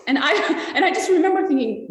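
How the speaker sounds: chuckling mid-sentence at the memory; laughing. Real, not acted. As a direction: laugh it out, embarrassed at the thought. Laughing at her own thought.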